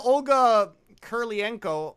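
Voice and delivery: "Olga Kurlienko" sounded out slowly, as an unsure attempt; slow, halting stab at saying "Kurlienko"; unsure pronunciation. Real, not acted. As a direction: take "Olga Kurlienko" slowly, like a name you can't pronounce. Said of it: "I'm not pronouncing that right".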